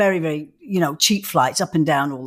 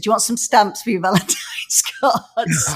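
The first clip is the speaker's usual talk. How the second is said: whispering; 3 semitones higher than usual. Retold or imitated. Mum's quote, voice unvoiced.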